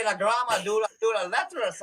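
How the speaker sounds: lightly attempted Irish brogue. Performer struggling through supposed Gaelic, hesitant mock Irish brogue. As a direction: feel through unfamiliar words in mock Irish. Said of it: "but it's an Irish".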